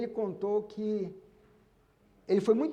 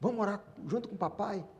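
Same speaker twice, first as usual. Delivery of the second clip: put-on softer, coaxing dad to his little girl; gentle to daughter; 6 dB quieter than usual. Father gently coaxing his little daughter to come pray. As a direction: invite her along softly.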